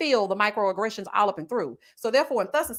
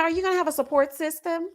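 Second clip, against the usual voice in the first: mildly raised, prim asking voice; quoting the nurse; 5 semitones higher than usual. Retold or imitated. Retelling the nurse's nosy question, lightly voiced. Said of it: "the lady told me".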